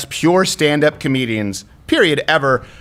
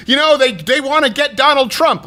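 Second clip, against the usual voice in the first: higher put-on voice of the president's son; mock president's son voice; 9 semitones higher than usual. Host mimicking the president's son calling his dad Donald Trump, higher. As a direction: play the son as a clueless kid, pitched up. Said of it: "he was like".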